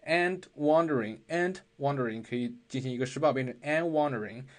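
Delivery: and wondering run together without a break; linked and wondering. Shown as a demonstration. Teacher modeling and wondering as one word. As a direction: blend and wondering.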